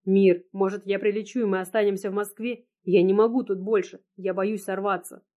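ordinary delivery

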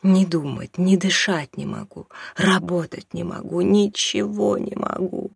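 desperate pleading. Acted. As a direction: beg him to let her go, voice rising to breaking. Mother pleads desperately, rising.

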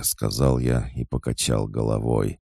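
usual speaking voice

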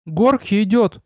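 high goblin voice with a slight whimper; a hint of whining, timid creature; whiny goblin voice. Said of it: "с едва уловимыми скулящими интонациями". (тонкий голосок с лёгкими скулящими нотками)

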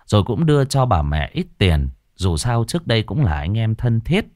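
ordinary delivery

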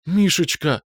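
high exhaled cry of his name; a hint of a girl's relieved breath. A narrator's reading. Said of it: "выдохнула Рита".

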